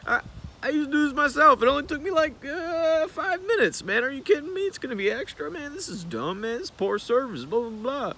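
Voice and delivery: mock a bullying customer berating you; intimidating guy yelling. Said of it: "the guys are just".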